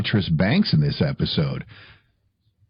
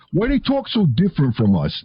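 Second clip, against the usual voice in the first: put-on curious child; 7 semitones higher than usual. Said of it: "it was like".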